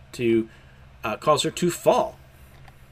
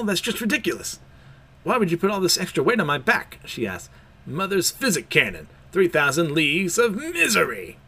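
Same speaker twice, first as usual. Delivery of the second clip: higher annoyed Big Mom; 5 semitones higher than usual. Acted.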